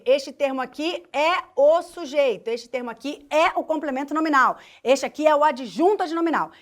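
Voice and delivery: emphatic, decisive naming of each function; firm verdict. Pretend. Teacher modelling how students label syntactic terms, firm verdict. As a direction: declare each term like a final ruling. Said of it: "bater o martelo e dizer".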